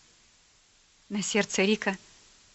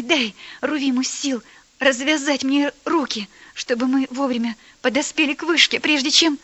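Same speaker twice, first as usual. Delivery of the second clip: earnest prayer; 2 semitones higher than usual. Acted. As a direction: pray hard and sincerely. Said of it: "горячо и искренне молился".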